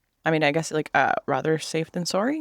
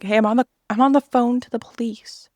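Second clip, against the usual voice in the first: retold yell; 6 semitones higher, 4 dB louder than usual. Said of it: "He yelled at me".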